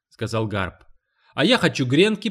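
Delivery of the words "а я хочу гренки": put-on high, loud child's demand. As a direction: insist on it like a small boy. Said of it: "потребовал Уолт".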